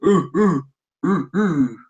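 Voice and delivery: lightly voiced ape "ooh"; smooth gorilla hoots. Harambe replying without words, smooth gorilla hoots. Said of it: "Harambe replied in a smooth, jazz surround, sounding voice".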